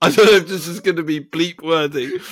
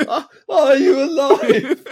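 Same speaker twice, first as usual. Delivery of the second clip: higher, louder, drawn-out mock bellow through laughter; farcical sitcom shout; 5 semitones higher, 4 dB louder, slower than usual. Re-enacting the scene like Fawlty Towers, laughing shout. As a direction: bellow it slowly like a sitcom farce. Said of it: "That's what it was like".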